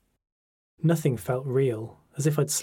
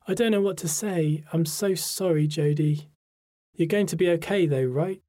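higher, anxious friend, understated panic; panicked; 5 semitones higher than usual. A narrator's reading. Friend reassures herself about the diagnosis, mildly panicked. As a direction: let mild panic push the voice up. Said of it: "She sounded panicked".

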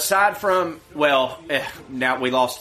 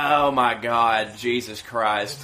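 exasperated; 5 semitones lower, slower than usual. Real, not acted. Exasperated at cohost's teasing.

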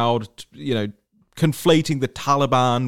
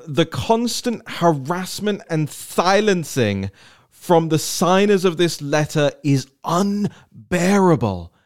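slow, lilting mock Somali-style accent; Ilhan Omar accent; 5 semitones higher, slower than usual. Host reading the rest of her tweet in a mock Somali accent. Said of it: "I'm gonna do her accent".

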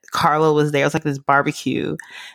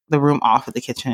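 ordinary talk

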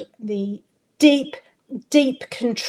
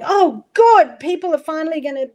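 relieved inner voice; 4 semitones higher than usual. Retold or imitated. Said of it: "a part of me going".

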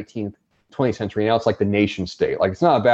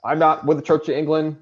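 defiant Quaker; 5 semitones higher than usual. Retold or imitated. Quaker answering the stay-and-fight crowd.

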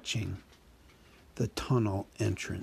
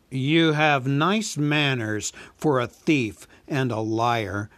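slow, louder, menacing dragon voice; a huge dragon toying with the thief; slow, loud dragon purring over his prey; dragon Smaug; 3 semitones higher, 6 dB louder, slower than usual. Acted.

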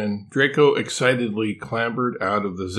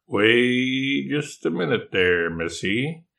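firm interruption; 3 semitones higher, slower than usual. Acted. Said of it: "Yuki interrupted".

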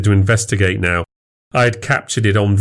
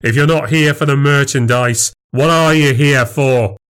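higher, pressing demand; accusing challenge; 5 semitones higher than usual. Acted. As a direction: confront the rival head-on. In his face, accusing.

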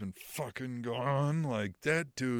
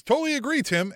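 a bad Australian accent, higher and louder; hammed-up Australian accent; terrible Australian accent; 11 semitones higher, 7 dB louder than usual. Host reading a chat comment in a bad Australian accent. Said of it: "forgive me for my terrible Australian accent".

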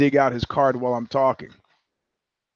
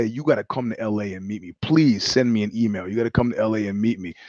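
rushed, pushy invite; quick, low-key hustling invite; eager fast pitch; 6 semitones lower, 4 dB quieter, faster than usual. Retold or imitated. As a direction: rattle it off like an eager agent. Agent pushing invite fast.

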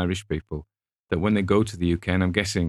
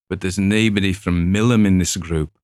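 local complaint; 7 dB louder than usual. Retold or imitated. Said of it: "he says".

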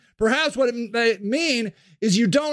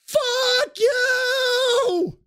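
furious shout; 13 semitones higher than usual. Acted. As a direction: scream it at all of them. Sage yells.

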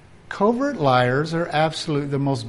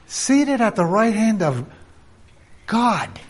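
"Seated at the right hand of God" higher and fully voiced to the end; fuller proclamation; 6 semitones higher than usual. Shown as a demonstration. Preacher repeating Christ's seat as a ringing declaration.

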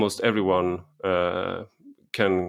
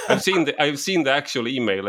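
indignant emphasis; 6 semitones higher than usual. Real, not acted. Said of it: "picture perfect of what the problem is".

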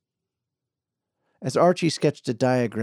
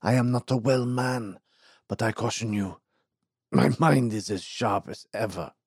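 put-on tired old man.

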